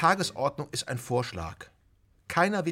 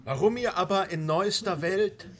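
declaimed rhyme with swooping tune; verse recital; 2 semitones higher than usual. Acted. Shepherd reciting anarchist verse to his pack, declaiming. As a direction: recite it to the gathered group.

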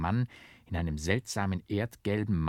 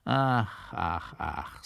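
mock-tearful lament; sighing; 3 semitones lower, much slower than usual. A narrator's reading. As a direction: sigh it out like a sorry clown. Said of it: "seufzte er".

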